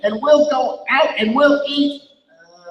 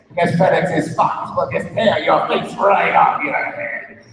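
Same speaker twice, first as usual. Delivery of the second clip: alien voice; 4 semitones lower than usual. Acted. Alien Pete demanding blue from Bob, lower alien voice. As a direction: speak as a solemn visitor from space. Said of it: "alien Pete speaking".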